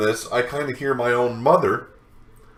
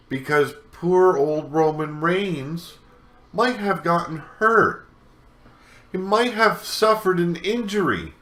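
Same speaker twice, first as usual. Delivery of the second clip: mock pity; 4 semitones higher than usual. Mocking fans' concern for Roman.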